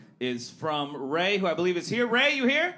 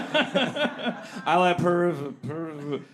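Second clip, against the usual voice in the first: words broken by laughter; laughing; much slower than usual. Real, not acted. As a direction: laugh through the question. Laughing while asking.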